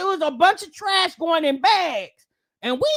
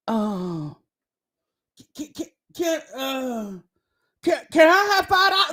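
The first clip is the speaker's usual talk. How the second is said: put-on stammering kid asking mama; 6 semitones lower than usual. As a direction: stumble over the words asking for five dollars. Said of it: "and you be like".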